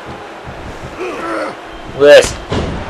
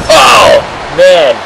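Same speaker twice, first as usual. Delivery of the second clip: commentator's exclamation, pitch jumping then dropping; excited reaction; 2 semitones higher than usual. Real, not acted. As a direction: react to a big hit. Reacting to a wrestling move.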